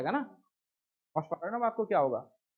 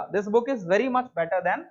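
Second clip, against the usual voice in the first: slow example; much slower than usual. Shown as a demonstration. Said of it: "ठीक है".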